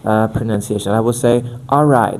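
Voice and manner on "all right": "All right" with a Portuguese accent, voice up front; Portuguese placement. Shown as a demonstration. Coach demos "All right" with a Portuguese accent. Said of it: "the placement of Portuguese".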